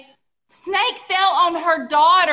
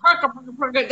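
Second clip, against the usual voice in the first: quick pattering perka sounds; imitated bumbling noise; faster than usual. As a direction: mimic a small creature busily bumbling about. Imitating the mouse at work.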